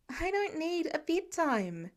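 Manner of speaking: lightly voiced sulky teenager protesting; grumpy complaint. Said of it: "Peter complains grumpily".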